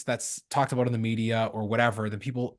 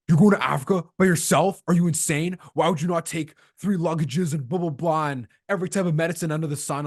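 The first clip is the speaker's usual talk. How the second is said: imitating alarmed friends, higher-pitched; mock incredulity; 3 semitones higher than usual. Friends reacting to a solo Africa trip, mock incredulous.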